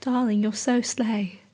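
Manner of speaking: lightly put-on British endearment; British accent. Imagined admirer complimenting her on a rainy night, British accent. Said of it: "doesn't have to be in a British accent".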